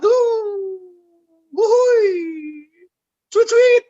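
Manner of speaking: high, loud playful catcall whistles. Pretend. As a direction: hoot at the angel like a leering man. Catcalling at a passing angel. (siulan genit menggoda dengan suara tinggi)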